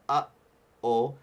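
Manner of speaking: "Uh-oh" with a sudden catch in the throat; glottal stop demo. Shown as a demonstration. Teacher shows the ukulele club the glottal stop in "Uh-oh". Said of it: "that sudden stop before the".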